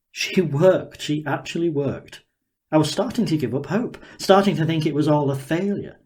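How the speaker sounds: a hint of a gleeful, curious inventor sizing her up; Daniel, eager scientist. Daniel marvelling at the girl before him, lightly voiced and eager.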